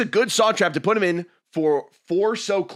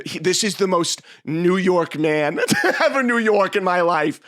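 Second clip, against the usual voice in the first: slow, louder, laughing disbelief; laughing through words; 3 semitones higher, 4 dB louder than usual. Real, not acted. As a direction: say it while cracking up. Laughing while telling girlfriend.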